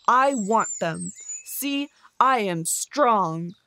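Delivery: slow, loud, heavy bear voice; a menacing bear bragging, loud and slow; boasting bear. Acted. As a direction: loom over him and spell out your strength. Bear claims the badger's home.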